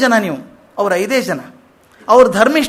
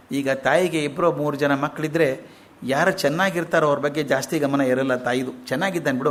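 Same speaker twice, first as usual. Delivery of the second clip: tender mother; 4 semitones lower, 3 dB quieter than usual. Retold or imitated. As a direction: lower and softer, a mother's tender explanation. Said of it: "ಆಕೆ ಹೇಳ್ತಾಳೆ". (ತಾಯಿ ಹಸು ಇಂದ್ರನಿಗೆ, ಮೃದುವಾದ ಮಮತೆಯ ದನಿ)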